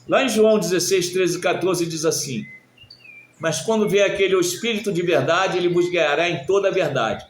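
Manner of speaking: scripture read out loud and high; leitura bíblica. Real, not acted. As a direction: proclaim the verse to the congregation. Reads scripture aloud to congregation. (leitura bíblica proclamada em voz alta)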